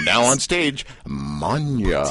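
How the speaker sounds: mock club DJ announcing the next dancer; a hint of a club MC calling the stage; strip club DJ. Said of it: "I sound like a DJ at a strip club".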